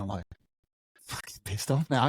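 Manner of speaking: usual speaking voice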